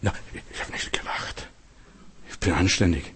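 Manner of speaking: near-whispered, low mock denial; hushed, acted protest of innocence; meek denial. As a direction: deny it under your breath. Voices Sarah denying she laughed.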